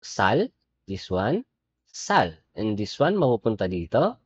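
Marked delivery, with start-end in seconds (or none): 0.0-2.4 sal drawn out slowly with a clear final l; sal, sounding the l at the end; teacher reading the syllable slowly; slow pronunciation. Shown as a demonstration. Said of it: "binasa natin yung".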